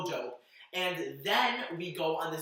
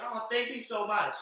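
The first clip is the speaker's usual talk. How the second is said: higher-pitched imitation of sweet thanks; sweet, genuine thanks; 6 semitones higher than usual. Singer thanking a fan who loves her music, sweetly. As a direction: lightly mimic heartfelt gratitude, pitched up. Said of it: "so genuine and just so sweet".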